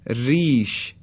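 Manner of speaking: ریش with a thin, light R. Shown as a demonstration. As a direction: keep the R of ریش fine. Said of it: "این نازک ادا کردن در این کلمات". (ریش با «ر» نازک)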